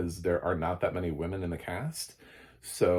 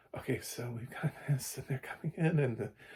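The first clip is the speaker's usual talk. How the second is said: soft, timid, hesitant, nervous narrator voice, pitched up; 6 semitones higher, 5 dB quieter than usual. Speaker mimicking a new narrator's reading, imitating a nervous narrator. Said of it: "she was very nervous the whole time".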